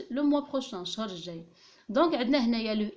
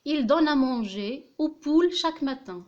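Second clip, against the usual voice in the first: slow dictation reading; 5 semitones higher, 7 dB louder, much slower than usual. Shown as a demonstration. Dictating the example sentence.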